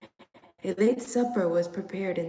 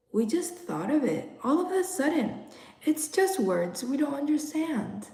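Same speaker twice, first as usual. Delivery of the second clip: put-on child's answer; 6 semitones higher than usual. Children answer their parents.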